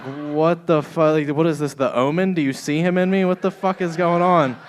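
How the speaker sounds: loud, high disbelieving outburst; stunned, laughing what-the-fuck; shocked outburst. Retold or imitated. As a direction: react like she just said something demonic. Shocked reply to niece in story.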